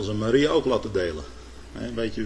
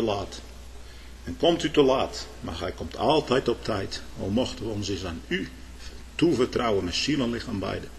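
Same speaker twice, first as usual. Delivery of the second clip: prayer. Real, not acted. Closing prayer.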